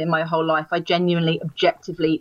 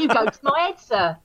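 mock Cockney, a bit higher; a cheeky London Cockney lilt; 4 semitones higher than usual. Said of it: "with a Cockney improv".

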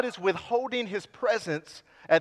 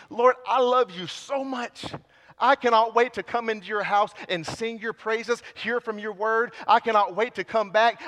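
eager prayer; 2 semitones higher than usual. Pretend.

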